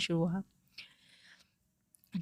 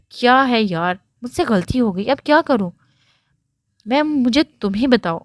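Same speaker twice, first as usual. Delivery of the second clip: loud, high, exasperated plea; frustrated outburst; 4 semitones higher, 6 dB louder than usual. A narrator's reading. Maan snapping at Ayat in the car, frustrated and loud. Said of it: "مان نے غصہ کرتے ضبط کرتے".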